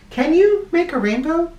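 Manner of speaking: high, eager ask; high hopeful question. Acted. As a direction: plead with a friend to try. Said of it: "I asked".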